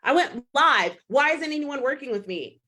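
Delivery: mock the frustrated newbie who expects instant clients; whiny new coach. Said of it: "they'd be like".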